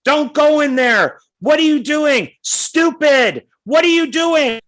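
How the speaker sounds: high, loud mock yell at the movie; screaming at the screen. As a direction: shriek at the heroine like a heckler. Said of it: "this woman starts screaming at the screen".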